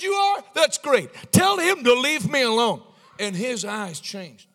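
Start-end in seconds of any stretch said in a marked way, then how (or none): 0.0-2.8 starts high, builds loud; bold, excited reply. Retold or imitated. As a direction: seize the chance and order it.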